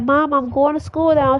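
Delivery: put-on kid voice. Son voiced leaving for school.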